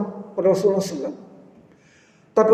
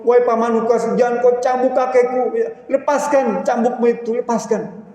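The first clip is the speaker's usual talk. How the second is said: put-on whimpering children's plea; 5 semitones higher than usual. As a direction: beg like a crying grandchild. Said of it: "Sambil menangis, merengek". (rengekan anak kecil yang menangis)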